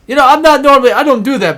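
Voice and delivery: loud, high-pitched cartoon voice; put-on disclaimer, pushed up high and loud; Carl protesting. Carl offered a smoke by the others, loudly protesting. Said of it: "Carl's like".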